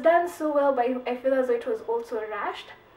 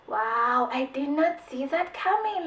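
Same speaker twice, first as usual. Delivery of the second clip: mock amazement; 3 semitones higher, slower than usual. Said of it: "you'll just be like".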